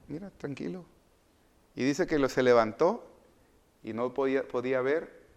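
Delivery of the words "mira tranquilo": calming. Acted. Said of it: "Y el Señor le dice".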